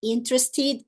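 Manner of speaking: "Interested" said as IN-tres-tid; reduced syllables. Shown as a demonstration. Teacher showing a variation, reduced "Interested". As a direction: stress the start of "Interested", dropping a syllable. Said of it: "A mesma coisa vai acontecer".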